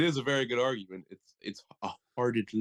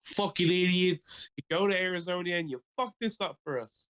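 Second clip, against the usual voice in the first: angry fan voice; 8 semitones higher than usual. Retold or imitated.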